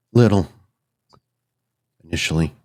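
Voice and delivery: measured, grave offer of a binding bargain; lightly voiced solemn figure. Spirit lays out terms of the binding, lightly voiced solemn figure. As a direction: state the terms with slight solemnity.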